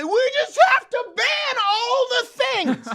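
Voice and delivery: very high, slow, loud caricature; mock hysterical banner. Host imitating viewers who'd ban everything, mock hysteria. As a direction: wail it as a hammed-up hysterical protest. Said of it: "watch this video and say".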